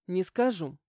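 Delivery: usual speaking voice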